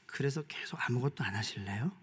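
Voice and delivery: soft unvoiced whisper to the flock. Real, not acted. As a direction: lean in and whisper the challenge. Rhetorical question to congregation.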